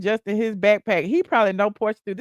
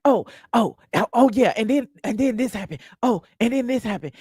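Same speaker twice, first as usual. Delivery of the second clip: mocking Portia; 2 semitones higher than usual. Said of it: "you don't remember things after the fact, like".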